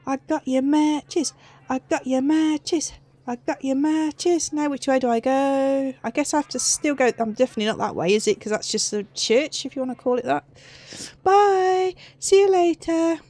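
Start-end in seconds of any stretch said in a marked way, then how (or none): 0.1-4.5 taunting singsong. Pretend. Taunting repeated. 11.2-13.2 mocking farewell. Mock farewell to monsters.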